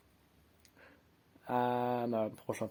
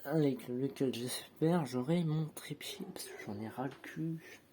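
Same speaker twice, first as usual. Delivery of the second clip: whispered aside. Real, not acted. Hoping for a tripod.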